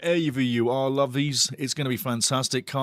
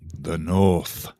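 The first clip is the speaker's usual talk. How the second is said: ominous announcer; 9 semitones lower than usual. Pretend. Host teasing the derby rivals, in a deep ominous voice. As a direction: drop much lower for a dramatic the North.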